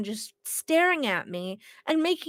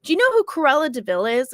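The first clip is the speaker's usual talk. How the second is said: quoting creepy stranger; 4 semitones higher, 8 dB louder than usual. Retold or imitated. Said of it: "he goes".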